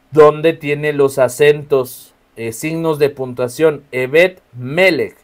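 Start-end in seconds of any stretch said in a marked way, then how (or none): 4.5-5.2 Melech stressed on its first syllable, ME-lech; slow, careful Melech, accent up front. Shown as a demonstration. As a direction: lean on the ME of Melech. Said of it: "Melech tiene acento en la primera".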